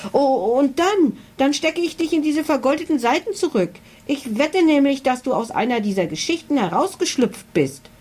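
high, shrill and rushing. A narrator's reading. Girl bluffs the dragon with a high shrill voice. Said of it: "fuhr Emily mit schriller Stimme fort".

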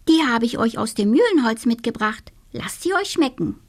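the witch presenting a treat; little witch offering. Acted. (kleine Hexe, schnell und freundlich)

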